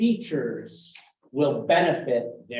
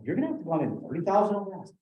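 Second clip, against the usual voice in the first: abrupt downswing; 4 semitones higher, 3 dB quieter, faster than usual. Shown as a demonstration. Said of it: "abrupt downswing".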